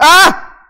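short loud fake shout in an odd voice; demo jump-scare yell. Shown as a demonstration. Showing viewers how the jump-scare should have gone, with a sudden yell. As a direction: shout out of nowhere. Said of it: "debí haber dicho".

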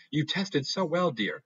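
drawn-out fake sweetness with menace; syrupy mom. Mom coaxing her daughter at dinner, sickly sweet. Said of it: "she smiles. Audience shudders".

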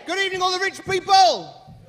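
high, loud showman call; mock posh greeting. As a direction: hail the rich like a ringmaster. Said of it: "compere greeting the crowd".

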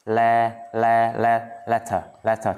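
"letter" built up from "le", ending without an r; silent final R. Shown as a demonstration. Teacher drills the word for students, "letter" with silent final r. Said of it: "Chữ R sau không đọc".

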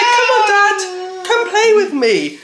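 put-on high, slow toddler voice; baby voice. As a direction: plead like a little child. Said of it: "she's like".

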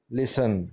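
लिसन said "lisun", no t; लिसन with the t left silent. Shown as a demonstration. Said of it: "लिसन में टी silent letter है". (लिसन में टी silent)

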